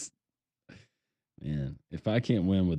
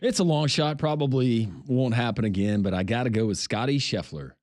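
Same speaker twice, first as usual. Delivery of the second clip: excited; 4 semitones higher, 5 dB louder than usual. Real, not acted. Announcing first draft pick.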